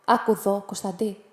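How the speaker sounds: a hint of calm, evening out the tone; man from the boat calmly addressing the boy. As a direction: settle down and speak evenly. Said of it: "είπε ήρεμα ο άνθρωπος".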